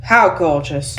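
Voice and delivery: mildly sarcastic, unimpressed line reading; understated stage sarcasm. Acted. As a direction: say it with dry sarcasm. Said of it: "gotta sound sarcastic".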